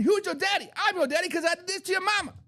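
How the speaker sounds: mock bragging swagger; cocky taunt. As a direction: crow it over the beaten team.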